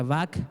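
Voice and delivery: "Vac" said with a hard k ending; "Vac", ending on a k sound; alternate pronunciation. Shown as a demonstration. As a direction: pronounce "Vac" as one syllable closed by k. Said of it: "Algunas veces se pronuncia".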